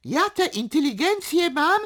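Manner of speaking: boastful, loud declaiming; indignant bragging with sudden high, loud bursts; chest-beating shouting. A narrator's reading. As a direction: proclaim it, punching each boast. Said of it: "bijąc się w piersi wołał".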